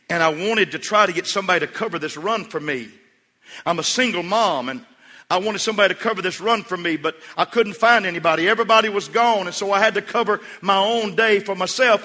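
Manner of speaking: mock-tearful outpouring, high and loud; retold tearful plea. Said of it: "she began to weep and cry".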